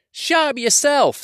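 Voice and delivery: Tom troll retort. Acted. Tom snaps back at William.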